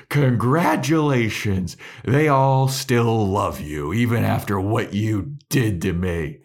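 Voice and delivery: loud, drawn-out sarcastic congratulations, imitated; retold bitter outburst. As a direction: act out a slow, loud, hurt reproach. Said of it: "she storms off".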